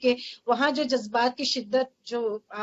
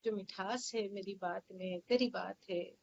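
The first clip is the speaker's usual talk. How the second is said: passionate recitation. Acted. Recites her poem.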